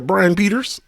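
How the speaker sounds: "Brian Peters" lifted at the end; name said pointedly. Acted. Streamer showing how to say a viewer's name, rising lilt. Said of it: "gotta say it like that".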